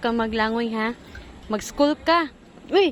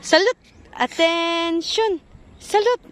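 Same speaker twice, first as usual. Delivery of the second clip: drill sergeant; 3 semitones higher, slower than usual. Pretend. Parent drills child in army game.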